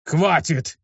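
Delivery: sharp, high, annoyed snap; irritated bark. A narrator's reading. Luke barking at the girl to stop, irritated. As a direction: cut her off hard. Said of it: "рявкнул на неё раздражённый Люк".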